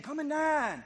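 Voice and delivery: from high and loud to a ringing shout; preacher voicing God calling the listener back; rising preaching call. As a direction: build the invitation to a fervent climax. Preacher voicing God's call at climax.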